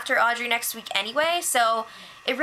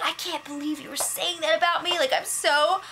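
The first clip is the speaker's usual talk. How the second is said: higher, whiny imitation of crying; mock tearful hurt; 3 semitones higher than usual. Vanessa confronting the housemates about the rumor, in mock tearful hurt. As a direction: imitate someone tearfully wounded, lightly overdone. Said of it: "so Vanessa starts crying".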